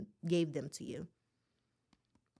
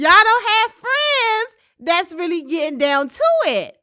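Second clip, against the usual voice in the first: whiny wail; 6 semitones higher, 12 dB louder than usual. Real, not acted. Venting, voice breaking.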